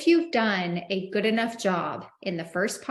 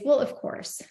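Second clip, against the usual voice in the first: demo sales pitch. Shown as a demonstration. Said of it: "the budget objection I like to use is".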